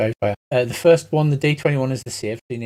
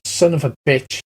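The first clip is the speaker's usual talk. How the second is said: a hint of a halfling cursing; lightly voiced halfling curse; 4 dB louder than usual. Kenku curses at the party in halfling voice. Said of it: "in a half voice".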